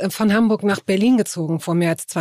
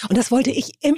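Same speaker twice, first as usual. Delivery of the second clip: usual speaking voice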